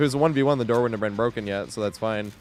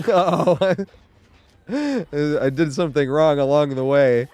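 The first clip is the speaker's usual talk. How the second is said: laughing imitation; 3 semitones higher than usual. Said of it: "the look on his face when he's like".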